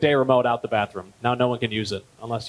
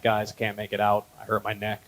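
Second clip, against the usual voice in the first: mock pitiful; 5 semitones lower, 6 dB quieter than usual. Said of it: "I'm like".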